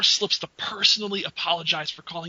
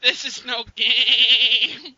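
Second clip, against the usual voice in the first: dramatic voice; 3 semitones higher, 8 dB louder, much slower than usual. Pretend. Mock dramatic line.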